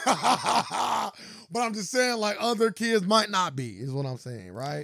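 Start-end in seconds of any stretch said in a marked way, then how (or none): 0.0-3.7 slow, drawn-out teasing repeat; teasing drawl. Real, not acted. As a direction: stretch it out slowly to tease your friend.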